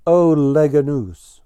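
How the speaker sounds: lightly shouted cry for help; mild narrated shout. A narrator's reading. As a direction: call it out as a trapped bird's cry, without full force. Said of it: "So he started shouting".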